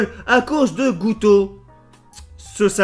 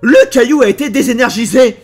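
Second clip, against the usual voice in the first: dramatic announcement; 4 semitones higher, 9 dB louder than usual. Real, not acted. Mock dramatic reveal tragedy.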